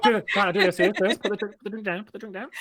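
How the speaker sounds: high eager coaxing; eager urging. Real, not acted. Urging friend to perform.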